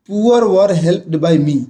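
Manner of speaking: very slow, poor stressed, word by word; slow classroom dictation; slow example reading. Shown as a demonstration. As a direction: read the example slowly for the class. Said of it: "example में देखिएगा".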